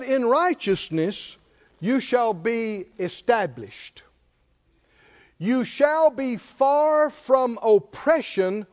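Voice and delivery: slow, weighty scripture reading. Acted. Preacher reading Isaiah to the church, slow and solemn. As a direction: read each word like a promise.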